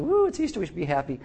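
high squeal on the woo, then it drops back; a hammed-up churchy cheer; mock cheer. Preacher mocking forced Easter cheer with a squealed woo. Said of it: "It's like".

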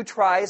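"tries" set apart with deliberate emphasis; stress on tries. Real, not acted. Pastor admitting his shortcomings, emphasis on "tries". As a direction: lean on the word "tries" and hold it briefly. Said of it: "I emphasize the word tries".

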